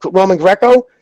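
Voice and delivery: high, excited oh my God realization; sudden realization. Real, not acted. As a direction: it suddenly clicks, pitch jumping up.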